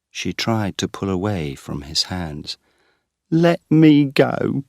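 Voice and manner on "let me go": high, slow pleading woman's voice; anxious wife pressing her case, higher; distressed young woman. A narrator's reading. Wife searching for husband explains to Geoffrey: high anxious plea.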